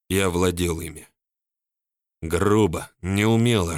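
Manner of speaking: plain reading voice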